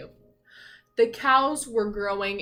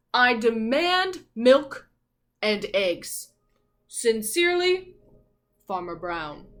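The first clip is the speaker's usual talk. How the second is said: stern farmer letter; 2 semitones higher, 6 dB louder than usual. Acted.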